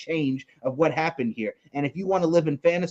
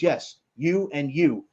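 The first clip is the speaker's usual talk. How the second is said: Asuka voice; 3 semitones lower, slower than usual. Retold or imitated. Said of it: "And Asuka goes".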